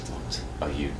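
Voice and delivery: close, secretive whisper. Acted. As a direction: whisper it so only one hears. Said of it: "and he starts whispering".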